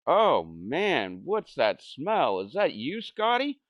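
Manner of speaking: slow, rising to a very high squeak; lightly voiced kid, rising high. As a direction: tease the baby about the smell. Kid noticing smell.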